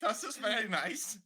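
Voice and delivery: mock German accent; hammy German tourist voice. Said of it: "He gets a German accent".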